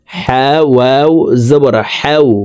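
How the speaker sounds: slow spell-out, "হাও" opening with h from mid-throat. Shown as a demonstration. Teacher demonstrating the letter ha's place, mid-throat h. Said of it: "হা হরফ হলকের মধ্যখান থেকে উচ্চারণ করে পড়ব".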